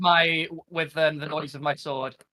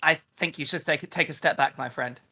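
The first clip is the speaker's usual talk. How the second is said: gentle warning; 3 semitones lower, 5 dB quieter than usual. Acted. Sword cautions the tempted character.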